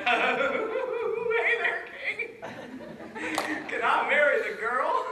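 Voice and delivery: Dumpling. Acted. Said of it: "Dumpling said".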